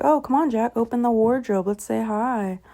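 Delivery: lightly voiced villain teasing through a door; taunting. Old Nick taunting Ma about her hidden son, mock-sing-song taunt. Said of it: "kinda, like, taunting her".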